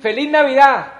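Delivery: loud, high holiday yell; festive shout. Acted. Coach yells at passers-by, loud festive shout. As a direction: belt it at the street.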